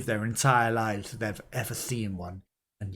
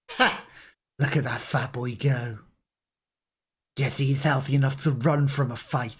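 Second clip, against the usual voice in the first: a bark of laughter then wry mockery; mocking old woman; 3 semitones higher, 3 dB louder than usual. Grandmother mocks the fleeing fat boy, mild jeer. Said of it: "barked out a single laugh".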